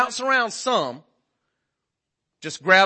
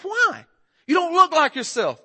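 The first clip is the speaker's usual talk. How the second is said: higher, pouty wife voice; sulky wife; 11 semitones higher, slower than usual. Retold or imitated. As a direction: pout it like an offended wife. Wife's reply in quarrel.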